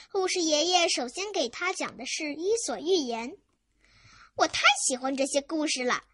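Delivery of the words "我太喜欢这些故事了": mildly excited; lightly voiced delight. Little boy praises grandpa's stories, mildly excited. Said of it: "兴奋地说".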